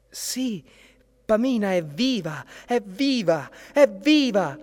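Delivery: high, lilting answer of a sweet choir; very sweet chorus. A narrator's reading. Heavenly chorus reassures anxious prince, high and sweet. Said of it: "rispose un coro dolcissimo".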